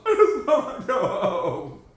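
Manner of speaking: laughing while whining to go home; half-laughed plea to go home. Real, not acted. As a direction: laugh through the complaint. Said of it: "Please let me leave".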